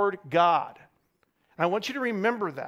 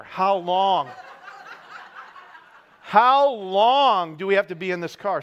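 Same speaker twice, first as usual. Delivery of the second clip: put-on whiny kid; 4 dB louder than usual. Kids whining on long car trip.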